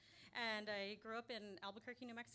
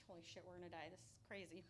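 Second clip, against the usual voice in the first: softer, scared whisper-like hush; terrified hush; 3 semitones lower, 11 dB quieter than usual. Retold or imitated. Hiding in a doorway as the car passes, terrified hush. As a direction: breathe it out hiding in the shadows. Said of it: "fucking terrified as all get out".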